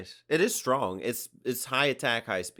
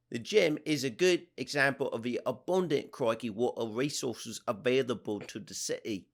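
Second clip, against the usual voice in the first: put-on light Australian accent, crikey tossed in; a hint of an Australian accent; mock Australian. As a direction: read the city guide like a jokey Aussie host. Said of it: "Let's go full Australian".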